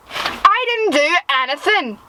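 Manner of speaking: mildly outraged self-defence; indignant protest. Acted. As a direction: protest your innocence. Protests at being blamed.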